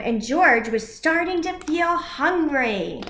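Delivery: put-on lively read-aloud for children; animated picture-book reading; story narration.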